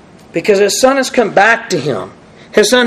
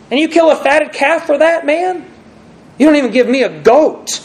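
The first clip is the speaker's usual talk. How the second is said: put-on mildly raised, resentful older brother; higher, aggrieved protest; bitter complaint; 5 semitones higher than usual. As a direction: voice the older son's grievance, a touch heated. Preacher voices bitter older son.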